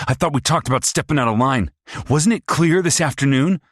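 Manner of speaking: high, loud, fast mocking sneer; sneering abusive son. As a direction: taunt her like a cruel bully. Paul scolds after backhand.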